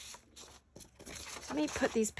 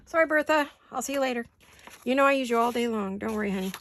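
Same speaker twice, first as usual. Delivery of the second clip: sweet-talking the paper cutter; 4 semitones higher, faster than usual. Pretend. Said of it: "Have conversations with my paper cutters".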